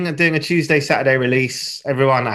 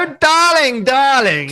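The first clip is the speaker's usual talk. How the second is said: high, loud, sultry darling; femme fatale; 13 semitones higher, 5 dB louder, slower than usual. Pretend. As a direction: coo it like a screen femme fatale. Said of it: "That voice".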